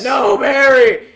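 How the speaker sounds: high, loud, slow hammed-up wail; mock anguished cry. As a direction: stretch it out like a movie death scene. Acted despair in retold story.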